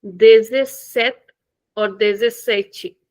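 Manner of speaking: dezessete first cut short, then ending in tchi; two versions. Shown as a demonstration. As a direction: contrast the clipped and the tchi ending. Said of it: "Same thing. In European".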